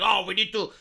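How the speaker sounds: mock meltdown rant. Streamer mocks Olbermann's Supreme Court meltdown for chat, hammed-up rant. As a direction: ham up a furious political rant, dragging out deconstruct. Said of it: "like, this meltdown".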